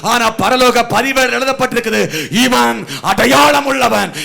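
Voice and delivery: climbing to a high, loud shout; shouted preaching. Acted. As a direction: preach it up to a full-force cry. (உச்சக் குரலில் முழங்கும் பிரசங்கம்)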